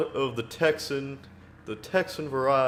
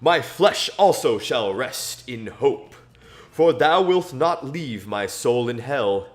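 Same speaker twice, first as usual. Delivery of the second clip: solemn, measured Bible reading; scripture reading; 2 semitones higher, 3 dB louder than usual. Acted. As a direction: read the psalm verse by verse to listeners. Reading Psalm sixteen aloud.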